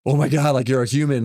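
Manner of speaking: retold amazed relief. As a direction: re-enact relief at finding another person. Relieved to meet someone at sea.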